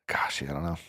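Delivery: quiet muttered aside; under the breath; whispering. Real, not acted. Muttering to self.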